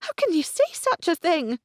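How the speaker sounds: put-on high, loud, shocked young woman; shocked gasp. A narrator's reading. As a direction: gasp it out in disbelief. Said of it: "she gasped".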